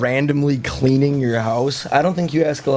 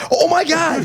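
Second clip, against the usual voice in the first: shocked. Real, not acted. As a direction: gasp it out in disbelief. Shocked by picture.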